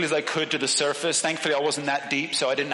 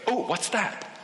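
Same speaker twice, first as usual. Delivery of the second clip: mock startled; 6 semitones higher than usual. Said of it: "you can't just suddenly go".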